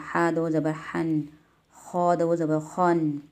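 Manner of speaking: हा दो ज़बर हन, खौ दो ज़बर खौन, spelled out slowly; slow, deliberate recitation; slow spelling drill. Shown as a demonstration. Teacher models recitation for a child, slow. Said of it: "ऐसे पढ़ा जाएगा".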